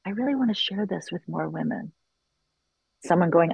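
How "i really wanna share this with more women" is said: softly voiced, mimicking a whispered confession; retold whisper. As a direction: say it softly, as if whispering a shy wish. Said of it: "I remember whispering it in a circle".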